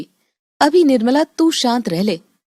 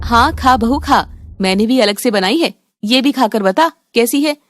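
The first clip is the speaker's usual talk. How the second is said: lightly voiced mother-in-law. Mother-in-law urges bahu to taste.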